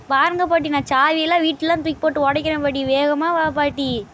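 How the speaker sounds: loud, whiny call for granny. Acted. Hungry grandson shouting for grandma to come quickly, loud and whiny. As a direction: yell for grandma to hurry up.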